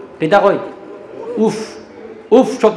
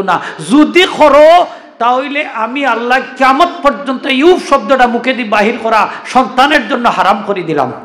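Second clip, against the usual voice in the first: preaching at full force; 3 semitones higher than usual. Acted. Preacher declaiming God's words to the congregation, forceful. Voicing God's command in sermon.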